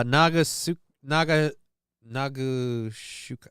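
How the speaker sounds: stumbling over a hard name; stuttering on the name; stammering. Real, not acted. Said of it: "keep stammering like an idiot".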